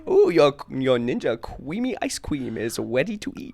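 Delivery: sweet sing-song princess voice; chirpy princess announcing a treat. Pretend. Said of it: "the princess voice".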